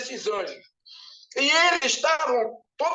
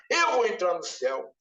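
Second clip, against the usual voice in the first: lower, self-assured murmur; the same boast repeated lower, to himself; chest-beating claim; 7 semitones lower than usual. Retold or imitated. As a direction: beat your chest and say it low. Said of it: "e batia no peito assim".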